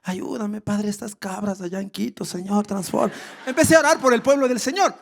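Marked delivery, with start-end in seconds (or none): 0.0-3.1 a hint of soft pleading prayer; quietly praying for the church in Quito. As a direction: pray under your breath, sincere. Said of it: "empecé a hablar con Dios así".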